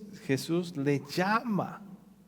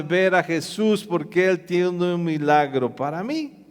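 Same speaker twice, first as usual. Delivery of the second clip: defiant outcry; 4 semitones higher, 5 dB louder than usual. Acted. Bartimeo refusing to be silenced.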